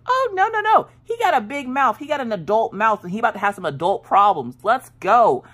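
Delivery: high hammed-up fired-up taunt; mock riled, ready to go; hyped up. To husband about the teen's big mouth, a high hammed-up hype. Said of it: "I'm like".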